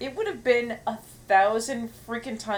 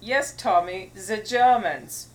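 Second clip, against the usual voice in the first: movie quote; 6 dB louder, slower than usual. Acted. Movie quote after accent talk.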